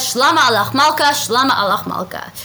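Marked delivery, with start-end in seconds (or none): 0.0-1.1 bright, emphatic royal greeting, slightly raised. Retold or imitated. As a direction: hail the king with a touch of ceremony. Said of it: "comes to him and says".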